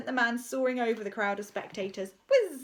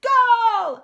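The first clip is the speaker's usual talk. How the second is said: loud, high goal shout; triumphant yell; victory yell; 12 semitones higher, 13 dB louder than usual. A narrator's reading. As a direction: roar it again and again. Repeated goal celebrations.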